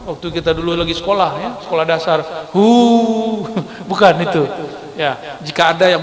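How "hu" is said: mock cheering hu. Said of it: "Bukan hu lagi sorak-sorak".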